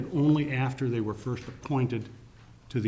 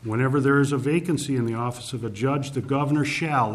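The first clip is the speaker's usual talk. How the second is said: formal reading of law text; 3 dB louder than usual. Shown as a demonstration. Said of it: "this is what the current language in the Constitution says".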